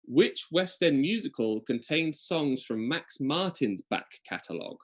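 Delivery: slow, measured quizmaster delivery; slow quiz host reading; quiz question read-out. Acted. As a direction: read the question out slowly, dropping away at the end.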